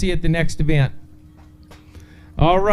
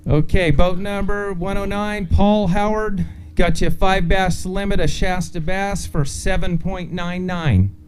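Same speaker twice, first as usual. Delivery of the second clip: announcer. Acted. Weigh-in announcing.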